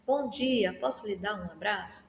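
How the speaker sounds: soft, gentle, honest offer; sincere and kind. Shown as a demonstration. Kindly greeting a colleague and offering a hug, softly. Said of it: "Não, não é assim, é assim".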